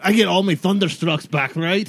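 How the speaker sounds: shout into the void. Acted. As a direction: call it out as a half-hearted shout. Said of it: "I just shout into the void".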